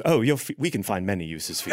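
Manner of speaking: low, soft leering nobleman; sly duke. Acted. Duke leering at the sisters, low and sly. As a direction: purr it with a hint of menace. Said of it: "He goes".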